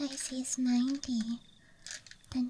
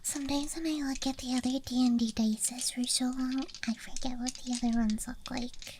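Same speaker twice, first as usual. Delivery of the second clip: ASMR whisper. Real, not acted. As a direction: whisper close to the mic. ASMR dice show-and-tell.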